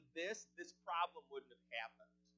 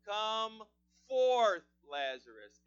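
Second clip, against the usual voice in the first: loud, higher command to rise; commanding shout; 5 semitones higher, 14 dB louder, much slower than usual. Acted. Jesus calls each listener out, loud commanding shout. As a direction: call him out with full authority. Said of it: "he's saying it to each of us today".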